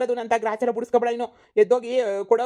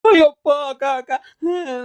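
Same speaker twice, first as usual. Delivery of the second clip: pained cry; 4 semitones higher, 7 dB louder, slower than usual. Acted. Son hit, cries to sister.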